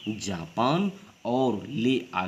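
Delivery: जापान set apart slowly from ले आ; slow, separated जापान, then ले आ; juncture demo. Shown as a demonstration. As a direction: spell out the break between जापान and ले आ. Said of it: "जापान प्रवाह और थोड़ा रुक कर".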